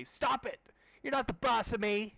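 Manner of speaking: high whiny brat; bratty kid voice. Acted. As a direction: whine it like a brat. Siblings fighting.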